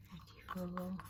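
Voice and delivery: whispered counting; whispering. Real, not acted. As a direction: count it under your breath. Whispered count while weighing.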